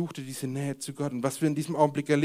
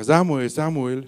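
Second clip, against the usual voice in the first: calling out; 8 dB louder, slower than usual. Acted. Reading God's call from verse.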